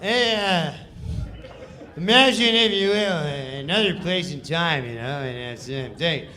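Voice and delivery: loose, laughing, half-hearted narrator read; Norm's lazy read. Retold or imitated. Comic retelling Norm's careless read of the narrator. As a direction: mumble the intro like you barely care. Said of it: "Norm Macdonald".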